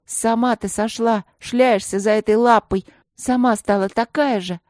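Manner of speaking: put-on a girl lashing out at her former friend; angry retort. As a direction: spit the accusation at her. Angry quarrel between friends.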